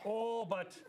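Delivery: put-on a light Scottish accent, kid whining for green; lightly voiced Scottish lilt, half-hearted. Kindergartner to teacher, in a light Scottish accent. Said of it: "Now add a Scottish accent".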